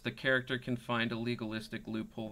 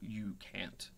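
whispering; 9 dB quieter, slower than usual. Real, not acted. GM stresses the rod's rule.

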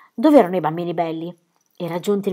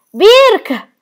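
high, loud desperate call; frantic shout for her brother; anguished cry; 13 semitones higher, 11 dB louder than usual. Acted. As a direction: scream his name in panic. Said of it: "urlò piena di angoscia".

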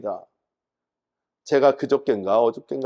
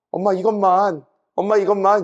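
put-on child begging; 5 semitones higher, 3 dB louder than usual.

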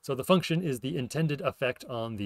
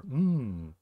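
a savoring hum; tasty mm; 2 semitones higher than usual. Shown as a demonstration. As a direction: hum as if tasting something good. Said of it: "like tasty".

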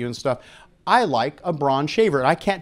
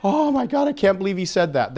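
mock shocked audience; 3 semitones higher than usual. Speaker imitates shocked doctors reacting to the talk, a mock scandalised voice. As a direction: play a mildly horrified listener. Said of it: "the whole audience was in horror".

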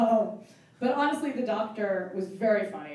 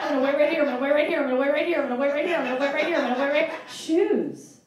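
a touch higher, loud, repeating eagerly; eager dog; 4 semitones higher, 5 dB louder, faster than usual. Pretend. A dog promising its owner to wait, eager. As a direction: loyal dog chanting while it waits.

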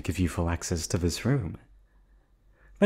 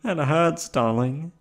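high, louder, theatrically wounded; mock hurt; 8 semitones higher, 5 dB louder, slower than usual. Captor pretending to be hurt by her captive, high mock pout. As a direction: pretend the insult stung, sugary.

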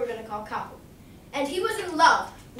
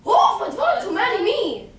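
louder, higher, with a laugh; laughing surprise; 7 semitones higher, 7 dB louder than usual. Acted. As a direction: laugh at the idea of marrying. Pokaka laughs, surprised at offer.

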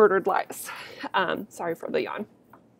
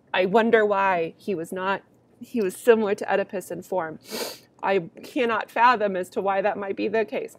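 sarcastic. Acted. Teacher mocking the characters' blindness, sarcastic. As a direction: pretend to be puzzled by the obvious. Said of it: "I hope you can hear the sarcasm in my voice".

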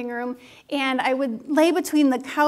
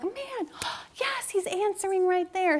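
surprised realization; 6 semitones higher, 3 dB quieter than usual. Retold or imitated. Realizing God is answering her.

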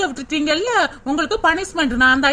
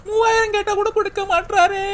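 put-on tearful wail; milk the fake sob; fake crying; 4 semitones higher than usual. Wife fakes crying about three thousand rupees, mock wail. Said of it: "ஒரு அழுகைய போடு".

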